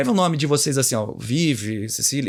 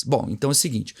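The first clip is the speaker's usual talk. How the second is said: linguagem de córtex; 2 semitones lower than usual. Shown as a demonstration. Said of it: "Eu vou falar numa linguagem de córtex".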